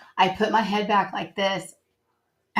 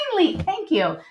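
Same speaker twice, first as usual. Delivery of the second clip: a hint of an exasperated God, pitched up at first; imagined God. God finally getting what was asked, lightly voiced relief. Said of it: "I imagined him up there going".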